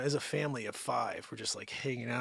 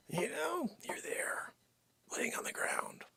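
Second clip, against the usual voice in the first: muttered complaint; 12 semitones higher, 8 dB quieter, slower than usual. Real, not acted. Muttering at the dogs.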